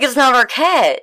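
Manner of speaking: high-pitched mock alarm; retold insistence. Acting out bewildered exchange with partner.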